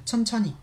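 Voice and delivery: 천천히 run together, the ㅎ softened towards 천처니. Shown as a demonstration. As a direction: say 천천히 quickly, letting the h drop away. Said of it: "如果读得快一点的话".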